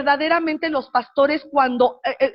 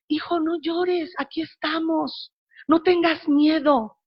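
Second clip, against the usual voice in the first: put-on father soothing baby. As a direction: hush a crying newborn gently. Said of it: "le empieza a decir su papá a Eli".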